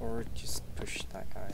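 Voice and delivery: whispering. Real, not acted. Quiet tactical aside.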